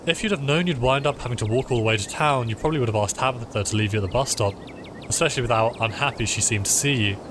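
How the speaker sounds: lightly voiced game narration; story narration. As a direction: read the story text aloud, evenly paced. Reads game narration aloud.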